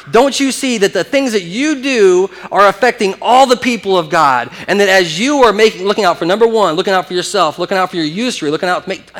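acted-out indignant reproach; impassioned rebuke. Voicing Nehemiah rebuking the nobles.

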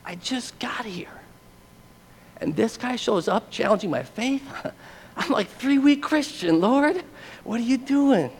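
high, strained, softly outraged protest; slow, squeezed complaint, rising in pitch; hushed indignation. Retold or imitated. New Christian shakes fist at God, hushed mock outrage. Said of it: "shook my fist and said".

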